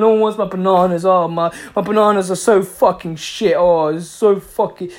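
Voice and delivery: hammed-up moaning of a rejected seller; frustrated whiner. Imitating frustrated people after rejection, mock whining. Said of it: "they're just crying and getting frustrated".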